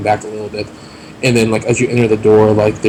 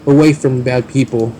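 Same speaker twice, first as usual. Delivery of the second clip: goblin voice; 3 semitones higher, slower than usual. Acted. Goblin NPC speaks.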